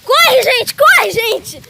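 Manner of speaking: high, loud panicked calls; being chased. Pretend. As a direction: yell at everyone to run. Running away, calling others.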